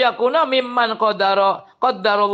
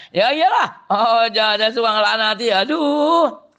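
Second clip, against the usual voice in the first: exasperated scolding; 3 semitones higher than usual. Real, not acted. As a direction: shake your head at them. Preacher playfully scolding.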